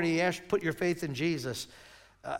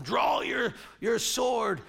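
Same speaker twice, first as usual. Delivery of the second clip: mock pirate challenge; 3 semitones higher, slower than usual. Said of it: "Captain Hook says to him".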